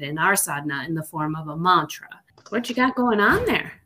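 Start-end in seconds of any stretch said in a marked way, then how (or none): 2.5-3.7 a playful touch of Minnesota; Minnesota accent. Real, not acted. Teasing her co-host in a light Minnesota accent. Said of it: "You used that Minnesota accent".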